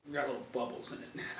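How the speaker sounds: chewing while talking; talking between bites; mouth full of pizza. Real, not acted. Seen 1: Holds pizza while talking, bites into slice from 2.2 s.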